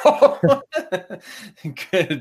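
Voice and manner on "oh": deflated oh. Retold or imitated. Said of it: "I'm like".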